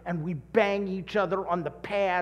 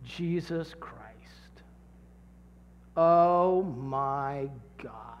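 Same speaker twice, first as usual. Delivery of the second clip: hushed example; 5 semitones lower, much slower than usual. Shown as a demonstration. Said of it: "I'm just gonna say it".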